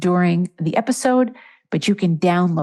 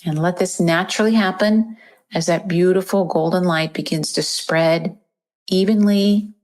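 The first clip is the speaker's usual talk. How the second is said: even meditation voice with long pauses; guided meditation. Acted. Host guides listeners to picture golden light in the chest, meditation voice. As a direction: guide them gently through the breath, leaving space.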